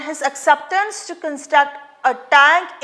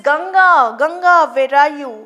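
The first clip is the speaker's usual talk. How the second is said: calling out; 3 dB louder than usual. Retold or imitated. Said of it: "Mara is howling".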